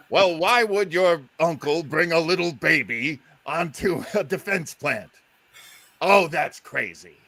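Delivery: old comedy straight-man impression; Bud Abbott. Abbott studying lines at the defense plant, straight-man voice. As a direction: play the straight man rehearsing aloud. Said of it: "Bud Abbott studying his lines".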